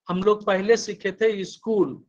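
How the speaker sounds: इस्कूल; स्कूल said as इस्कूल with a leading i; 1 school with added i. Shown as a demonstration. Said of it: "not school".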